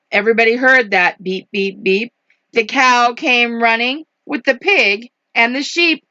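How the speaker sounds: brisk picture-book narration; lively storybook delivery; story reading to children. A narrator's reading. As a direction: read the rhyme in a bouncy rhythm. Reads picture book aloud.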